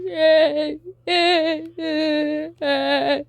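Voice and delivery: high, bleated "eh" sobs; mock crying. Hurt brother on the ground, mock crying. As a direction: whimper in short, high mock cries. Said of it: "freaking crying".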